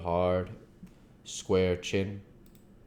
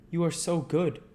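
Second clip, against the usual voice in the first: put-on earnest old doctor; 10 semitones higher than usual. The doctor to Mina, explaining his visit, grave and courteous.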